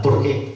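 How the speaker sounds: "por qué" set apart, weight on "qué"; pointed question word. Shown as a demonstration. Councillor introducing the next question, emphatic "por qué". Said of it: "Empieza por ¿por qué?".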